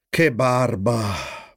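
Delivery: slow, low, bored grumble; grumbling. A narrator's reading. Flip bored by the salad programme, low slow grumbling. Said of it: "brontolò Flip".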